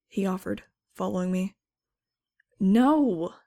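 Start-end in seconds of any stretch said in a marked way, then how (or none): 2.6-3.3 loud, sharp, high refusal; shouted no. Acted. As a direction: bark a flat refusal. Refusing the offer of Valium.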